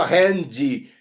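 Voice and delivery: handy in two clear syllables, DI at the end; final Y as I. Shown as a demonstration. Teacher asking learners to notice, handy with clear final I. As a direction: sound the I after the D in handy. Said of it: "Reparem bem".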